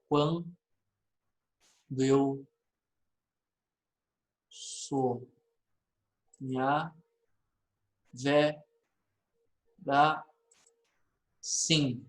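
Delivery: "Quando eu sonhar, verá sim" broken into syllables, long pause after each; subdued, halting scansion of "Quando eu sonhar, verá sim", one syllable at a time. Shown as a demonstration. Teacher splitting the verse for students, "Quando eu sonhar, verá sim" syllable by syllable. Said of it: "Vou separar aqui com vocês".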